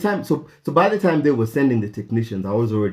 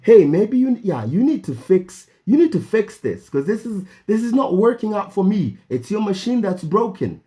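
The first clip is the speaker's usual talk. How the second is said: frustrated demand; 7 semitones higher than usual. Retold or imitated. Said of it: "I'm getting really frustrated".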